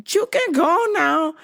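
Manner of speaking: high, slow put-on voice; female agent impression. Agent telling the lingering traveler to go, imitated high voice.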